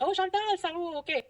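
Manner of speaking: put-on "Chantal" in a light French accent, shahn-TAHL, high and bright; French pronunciation. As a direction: say "Chantal" the French way, like a friendly volunteer. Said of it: "she knows how to say my name 'cause she's French Canadian".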